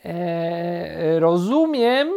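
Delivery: long hesitant start into a high shout; shouting back. A narrator's reading. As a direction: call back over the noise. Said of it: "odkrzyknęła Misia".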